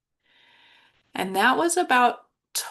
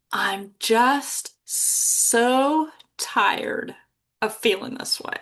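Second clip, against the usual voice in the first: close to tears; much slower than usual. Real, not acted. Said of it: "just saying it makes me want to cry".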